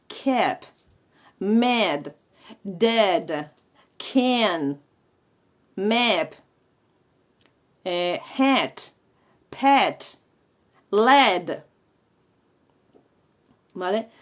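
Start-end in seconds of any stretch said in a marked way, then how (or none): 0.1-11.6 "kept, mad, dead, can, map" as isolated words with a frontal A; choni A. Shown as a demonstration. Teacher modelling an English phoneme, "kept, mad, dead" with front A. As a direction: drill "hat, pet, led" on the short front vowel. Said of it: "Pues eso es un fonema en inglés".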